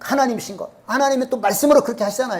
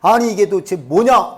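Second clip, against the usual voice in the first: mock-angry retort, raised over the narration; indignant outburst; 4 dB louder than usual. Angry Naaman objects to the prophet's instruction, indignant. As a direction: protest like an offended dignitary. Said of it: "성질이 나가지고 화가".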